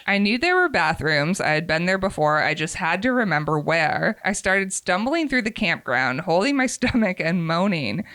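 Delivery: measured, expressive first-person storytelling; story narration. A narrator's reading. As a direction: read a confessional story aloud with lively emphasis. Reads a submitted story aloud.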